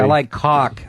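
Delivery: "cock" said with a broad Boston vowel; like a Boston girl says it; Boston accent. Retold or imitated. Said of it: "That's how Boston girls say".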